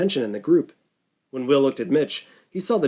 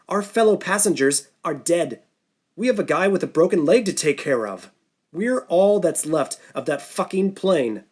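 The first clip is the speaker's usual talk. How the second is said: a raised, stern lecture with hard pauses; commanding; 4 semitones higher than usual. Acted. Norton giving the survivors an ultimatum, commanding. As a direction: lay down the law to the group. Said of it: "his voice suddenly sounding commanding".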